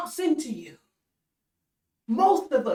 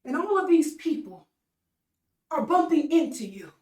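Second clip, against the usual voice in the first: disciples protesting; 4 semitones higher than usual. Retold or imitated. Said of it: "The disciples said".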